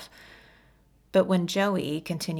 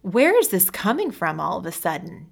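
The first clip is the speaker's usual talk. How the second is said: louder, agitated question; upset demand; 7 dB louder than usual. Acted. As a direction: demand answers, rattled.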